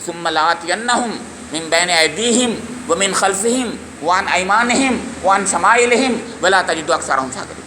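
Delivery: slow measured Arabic verse recitation; slow Quranic recitation within a sermon. Acted. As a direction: intone the verse slowly and solemnly.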